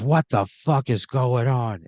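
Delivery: slow, lightly growled demand; a jealous husband barging in, slowly; angry husband. Acted. Danny confronting Pat beside his crying wife, mock angry. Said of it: "this guy goes".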